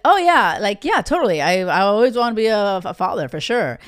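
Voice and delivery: lightly voiced smooth player; a hint of a suave guy agreeing. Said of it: "be a lot more suave".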